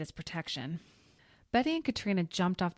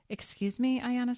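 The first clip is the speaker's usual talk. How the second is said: sharp, higher, louder "excuse me"; irritated; 7 semitones higher, 4 dB louder than usual. Acted. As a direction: bristle with irritation. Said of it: "She sounded irritated".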